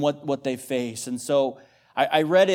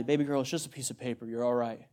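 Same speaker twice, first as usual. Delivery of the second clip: put-on softer, quick reassurance to a little girl; retold fatherly soothing; 3 semitones lower, 6 dB quieter than usual. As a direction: gently play down a child's upset. Dad soothing crying daughter.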